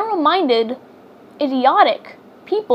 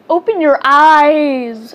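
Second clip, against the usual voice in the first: loud breathy stage whisper; 5 dB louder, slower than usual. Real, not acted. Stage whisper urging Ren to open their eyes. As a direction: hiss it like a plea to wake up.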